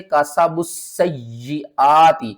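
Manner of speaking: slow, drawn-out Quranic chant; slow tilawat; Quran recitation. Shown as a demonstration. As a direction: recite it with tajweed, stretching slowly. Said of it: "تو کس طرح پڑھیں گے؟".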